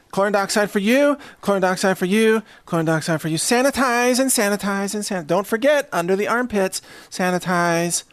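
playful repetitive patter; health ranger handing out. Pretend. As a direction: dole it out like a chirpy attendant. Plays health ranger greeting arrivals.

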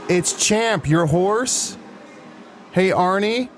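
high, drawn-out horse calling Arnie; weird calling voice. Acted. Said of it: "Why am I talking like this?".

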